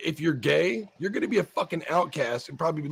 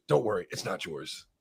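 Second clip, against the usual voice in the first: mock joke; 9 semitones lower, 7 dB quieter than usual. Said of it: "She goes".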